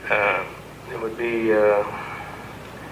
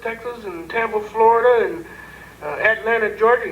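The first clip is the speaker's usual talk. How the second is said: higher, indignant rant of a sheriff; complaining sheriff, voice pitched up; upset sheriff; 8 semitones higher than usual. Retold or imitated. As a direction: play the flustered sheriff ranting.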